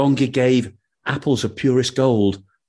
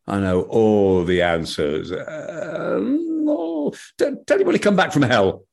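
put-on cocky young man; 2 semitones higher than usual. Young man's cocky answer.

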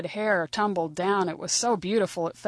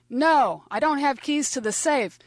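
higher-pitched, protesting clerk; clerk in a robbery; 6 semitones higher than usual. Retold or imitated. Clerk refusing a gunman on surveillance video, high-pitched protest. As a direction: plead with a gunman in a raised pitch. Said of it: "a gunman and a clerk".

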